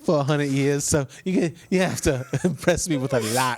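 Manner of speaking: lightly put-on southern lady shark; southern accent. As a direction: play a blind lady shark with a southern lilt. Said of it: "she has a southern accent".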